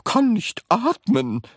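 high, slow breathless complaint; gasping. A narrator's reading. Grandma unable to breathe, gasping. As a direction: gasp it out as if air is gone. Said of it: "keuchte Grandma Georgina".

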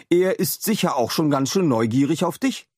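put-on a kind inventor letting a boy in on a secret; Adam voice. A narrator's reading. (freundlicher Wissenschaftler, höher gesprochen)

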